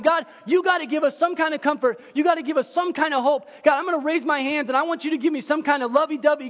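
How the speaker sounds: desperate prayer. Retold or imitated. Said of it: "sitting there praying to God, going".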